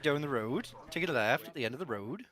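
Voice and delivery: lilting West Country orders; West Country accent. Retold or imitated. Player recalling orders to his American team, West Country accent. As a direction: imitate West Country directions, lively and swinging in pitch. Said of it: "in a West Country accent".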